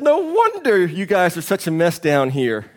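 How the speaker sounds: slow, mildly scornful put-down; scoffing. Acted. Preacher voicing the arrogant businessman scoffing slowly at the fisherman. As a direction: look down on him with a light scoff. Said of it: "The businessman scoffed at him".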